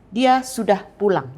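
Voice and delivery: firm statement with DIA and PULANG accented; emphatic assertion. Shown as a demonstration. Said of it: "Ditekankan kepada dia dan kata pulang".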